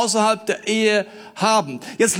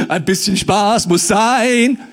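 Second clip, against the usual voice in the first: mock carefree voice; 5 dB louder, slower than usual. Mock worldly excuse.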